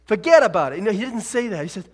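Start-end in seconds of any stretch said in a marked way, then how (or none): 0.0-0.8 higher, much louder Brooklyn wiseguy rant; Brooklyn accent. Retold or imitated. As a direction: stammer it out like a pushy Brooklyn guy. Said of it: "He wasn't from Brooklyn".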